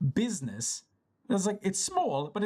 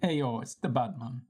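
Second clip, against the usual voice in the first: put-on Jamaican accent; 7 semitones lower than usual. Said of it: "Another Jamaican reference".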